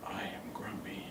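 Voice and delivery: whispered grumpy; low whisper. Shown as a demonstration. The speaker trying grumpy low for the class. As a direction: hiss it out low. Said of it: "a really low pitch".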